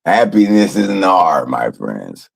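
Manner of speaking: a wise man calmly preaching happiness to his friends; mock guru. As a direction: deliver it like a serene wise teacher. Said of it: "That's what I've been trying to teach you guys".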